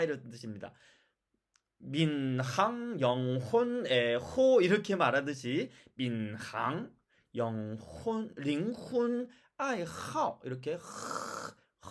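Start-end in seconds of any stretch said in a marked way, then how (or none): 1.8-4.6 민항, 영혼, 애호 with each h pulled apart and sounded; husky h. Shown as a demonstration. Teacher modelling the key point, husky h. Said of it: "허스키하게 소리를 내야 된다". 5.9-10.4 민항, 영혼, 링훈, 아이하오 with a rasped throat h; husky h. Shown as a demonstration. Teacher modelling the Chinese H, husky h. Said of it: "허스키하게 발음을 내면".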